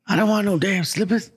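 high-pitched mock grumpy old man. Old man turning down gifted slippers, grumpy. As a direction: refuse it like a cranky old man. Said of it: "this old man is now grumpy".

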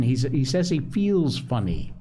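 measured storybook reading; story narration. A narrator's reading. Host reads a family tale to listeners, story narration. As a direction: read the story aloud, acting out each figure.

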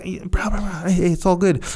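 calm him down gently, bro to bro; soothing bro. Retold or imitated. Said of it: "You be like".

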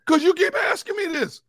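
high shouted retort; angry shout. Retold or imitated. Husband yelling back at family who keep asking, high shout. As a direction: yell back in frustration. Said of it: "Well, why are you getting mad?".

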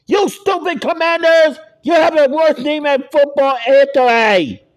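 loud, high angry shout; angry yell. Real, not acted. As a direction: yell at the team in anger. Yelling at a rival team.

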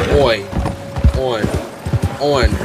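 "oi", then "on" with a nasal French vowel. Shown as a demonstration. Streamer breaking down the French vowel for chat. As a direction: drill the sound "on" slowly. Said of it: "that's how it sounds in French".

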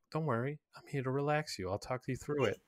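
retold calming words, softly spoken; mildly reassuring. Character talks a panicking girl through it, mildly reassuring. Retells soothing someone in a panic.

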